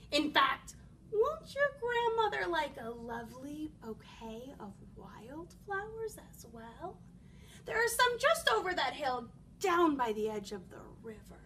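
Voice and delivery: lightly voiced tempting wolf; sly coaxing wolf. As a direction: coax the child off the path.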